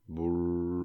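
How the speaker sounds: low lips-buzz brrr; humming buzz. Shown as a demonstration. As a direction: imitate a humming drone.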